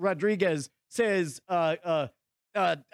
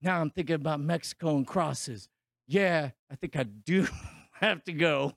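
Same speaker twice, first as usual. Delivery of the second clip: lower, gravelly-free mock tough guy; mock movie-star hero, lower; gruff action hero; 7 semitones lower than usual. Voicing the hero again.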